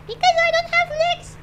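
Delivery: high squeaky little box voice. Acted. Voicing the box.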